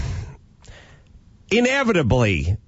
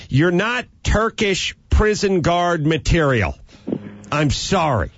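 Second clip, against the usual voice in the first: stern rejecting official; 4 semitones higher than usual. Retold or imitated. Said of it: "it would be like someone saying".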